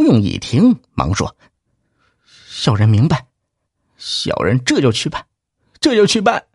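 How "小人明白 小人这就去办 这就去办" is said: hurried servile. Acted. Clerk hurriedly obeys.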